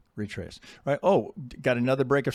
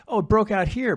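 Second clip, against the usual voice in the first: higher-pitched imitation of an excited trader; mock eager objection; 10 semitones higher, 7 dB louder than usual. Trader objects about a breakout, mock eager and high. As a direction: voice the breakout fan, pitched well up.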